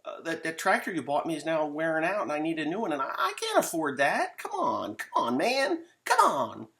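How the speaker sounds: high, rising whine into a mock cry; whining kid. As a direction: beg and whimper for a new tractor. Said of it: "They're like".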